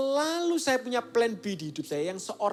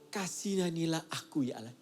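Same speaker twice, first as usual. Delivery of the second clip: low, soft and lowly, a poor man's prayer; soft humble plea; 4 semitones lower, 8 dB quieter than usual. Shown as a demonstration. Preacher voicing David's soft humble plea. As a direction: beg quietly like a beggar before God. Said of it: "Daud ngomongnya".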